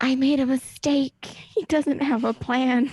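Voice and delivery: very loud, voiced stage whisper. Voicing a message that Zara receives: half-whispering as Talia. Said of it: "it's gonna sound like Talia whispering".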